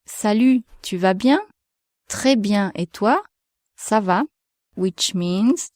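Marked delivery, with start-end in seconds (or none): 0.1-4.3 casual "Salut, tu vas bien?" exchange; informal French dialogue. Shown as a demonstration. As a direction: model informal French greetings. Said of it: "another example".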